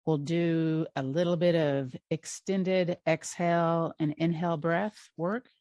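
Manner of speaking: unhurried guided-relaxation voice with long pauses; guided meditation. Real, not acted. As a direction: gently guide them into rest, leaving space between phrases.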